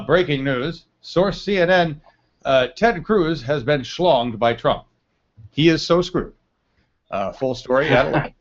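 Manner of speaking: slow, deliberate breaking-news read; mock headline read. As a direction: read it out like a newscaster, measured pace. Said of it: "I'll read the headline to you".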